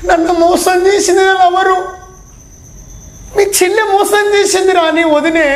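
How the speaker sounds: half-hearted sobbing complaint; mock crying lover. Jilted boyfriend to his buddy, mock sobbing. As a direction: play a dumped lover whining to a friend. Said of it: "ఏడుపు వస్తుందిరా".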